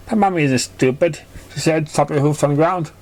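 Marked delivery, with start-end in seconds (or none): 0.1-1.2 a filly standing up for her mum; lightly pitched-up child voice; lightly voiced filly. Dinky defends her mother.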